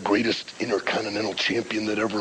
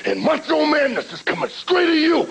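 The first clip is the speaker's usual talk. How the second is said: Macho Man rant. Retold or imitated. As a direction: ramble like a hyped-up wrestler. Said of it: "Macho Man's greatest rant of all time".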